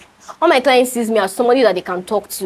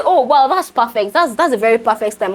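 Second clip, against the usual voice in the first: mock delight, sarcastic; fake-cheerful and sarcastic; oh wow, so perfect, said sarcastically. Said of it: "I was being sarcastic".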